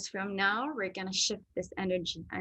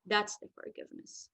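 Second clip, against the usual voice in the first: whispered; 6 dB quieter than usual. Real, not acted. Quiet emphasis closing a point.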